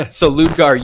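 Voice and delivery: ordinary delivery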